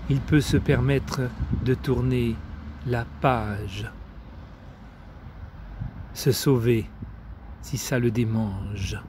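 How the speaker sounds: measured poem recital with deliberate pauses; poetry reading. Acted. Reading Maria Stepanova's poems to friends, measured poetry recital. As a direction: recite it line by line, letting each phrase stand.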